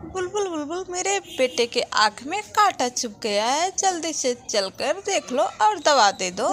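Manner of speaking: lightly voiced anxious mother; calling out. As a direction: call the doctor for your son. Mother calls the doctor bird.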